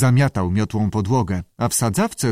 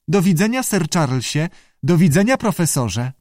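high, rising creature farewells; squawky salamander; 7 semitones higher than usual. A narrator's reading. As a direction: chirp polite goodbyes to each guest. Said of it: "zaskrzeczała salamandra". (skrzekliwe, wysokie pożegnanie salamandry)

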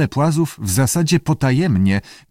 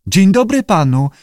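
high-pitched lizard greeting; high creature echo; lizard parroting; 8 semitones higher, 4 dB louder than usual. A narrator's reading.

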